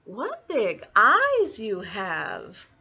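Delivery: very slow, swooping exclamation; wondering little girl. Acted. Little Red staring at odd eyes, slow drawn-out wonder. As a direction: stretch the words in amazement.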